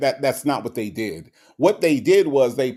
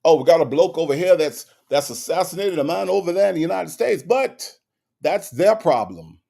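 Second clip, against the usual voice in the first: a lightly put-on British accent, a bit fast; hammed-up British bloke, brushing it off; 4 semitones higher than usual. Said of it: "my British accent is horrible".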